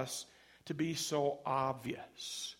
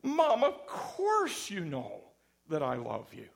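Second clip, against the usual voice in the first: mock-flustered, drawing out the words; a child reassuring mom at lunch, hammed up; flustered reassurance; 5 dB louder than usual. Child answering mom, voiced.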